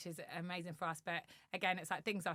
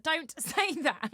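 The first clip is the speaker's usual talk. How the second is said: laughing mock protest; 11 semitones higher, 11 dB louder, much slower than usual. Retold argument with friend.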